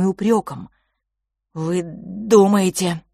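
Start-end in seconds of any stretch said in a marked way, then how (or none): 1.5-3.0 slow, halting, stumbling start; a frightened boy faltering; faltering stammer. A narrator's reading. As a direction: get the words out with effort. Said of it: "Франц даже начал заикаться".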